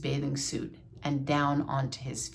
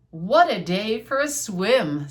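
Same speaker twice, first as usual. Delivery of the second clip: louder, slow, swooping delight; lively read-aloud Frog line; cheerful Frog; 3 semitones higher, 6 dB louder than usual. Acted. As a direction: savor each word with big lilting swings. Frog voiced in read-aloud story.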